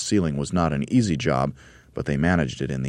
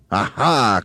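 raised triumphant exclamation; Mugglewump crying out; 6 semitones higher, 6 dB louder than usual. A narrator's reading. Monkey leader ready for fun, crying out. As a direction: cry it with glee, louder. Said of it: "cried Mugglewump".

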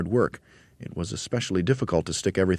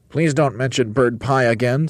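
higher, louder pleading bird voice; Roly-Poly Bird protesting; 8 semitones higher, 5 dB louder than usual. A narrator's reading. Bird to monkey about bird pie, protesting. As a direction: plead in a pitched-up character voice.

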